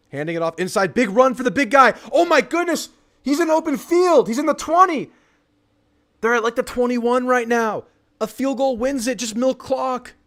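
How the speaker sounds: high, loud burst of live excitement; real excited play-by-play. Real, not acted. Streamer calling a sudden big run to viewers, thrilled shouting. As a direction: erupt as the big run breaks open. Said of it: "My heart rate just jumped".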